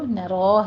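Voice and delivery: نَرَا with a full heavy ra; نَرَا with the ra thick. Shown as a demonstration. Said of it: "را مفخم پڑھی جائے گی".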